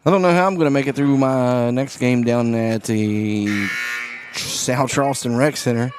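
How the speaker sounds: raspy, worn-out hoarse voice. Real, not acted. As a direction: sounds like a smoker's rasp. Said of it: "My voice is not wanting to cooperate today".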